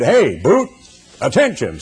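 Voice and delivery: retold barked order. Commander to a new sailor, mild mock bark.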